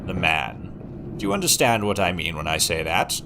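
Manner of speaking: measured Kingsman-style posh English; sophisticated British accent. Shown as a demonstration. Streamer mock-teaching a viewer British culture, sophisticated British accent. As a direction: lecture like a refined British gentleman. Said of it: "the sophisticated British accent".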